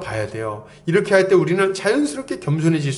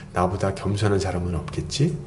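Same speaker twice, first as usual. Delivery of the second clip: smug inner thought; 10 semitones lower, 5 dB quieter than usual. Retold or imitated. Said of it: "이렇게".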